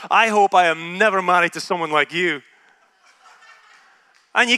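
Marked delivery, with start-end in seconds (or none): 0.1-2.4 retold sarcastic jab. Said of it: "And I remember saying to her".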